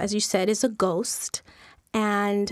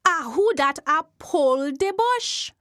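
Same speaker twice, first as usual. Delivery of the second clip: Jumbie voice; 3 semitones higher than usual. Acted. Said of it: "The voice say again".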